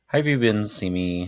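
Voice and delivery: a hint of a vague British accent, high and loud; lightly put-on accent on a greeting; odd accent. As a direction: greet him in a put-on foreign lilt. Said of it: "I don't know what that accent was".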